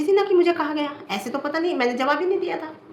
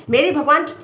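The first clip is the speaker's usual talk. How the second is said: laughing; 3 semitones higher, 5 dB louder than usual. Real, not acted. Laughing swear by God.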